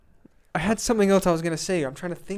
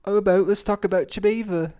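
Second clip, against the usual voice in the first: playful mock Canadian accent; 2 semitones higher than usual. Shown as a demonstration. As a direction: put on a Canadian lilt. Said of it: "Do your Canadian accent".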